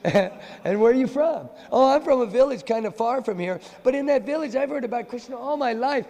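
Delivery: put-on high, girlish pleading voice; a disguised girl pleading to the friends; sweet village girl. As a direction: charm them as a lovesick maiden. Krishna disguised as a girl speaks.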